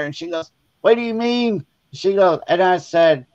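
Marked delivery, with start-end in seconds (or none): 0.8-1.6 high-pitched mock bewilderment; imitated indignant disbelief. Sister learns spider was not real, high disbelieving imitation. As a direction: question it high, like a startled sister.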